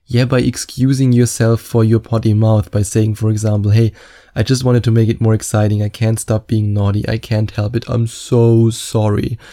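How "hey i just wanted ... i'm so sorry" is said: cheeky teasing. Acted. Coach models excusing a potty mouth to a girl, cheeky and teasing. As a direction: tease with a put-on apology. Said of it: "in this cheeky, teasing way".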